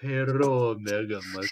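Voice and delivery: put-on playful Russian accent; mock Russian accent. Player greeting favorite friend, mock Russian accent. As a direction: greet like a jokey Russian comrade. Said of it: "let's be the Russian".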